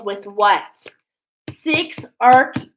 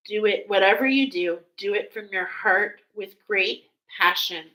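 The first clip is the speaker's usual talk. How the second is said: channeled archangel. Pretend. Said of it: "Archangel Haniel wants to say to you".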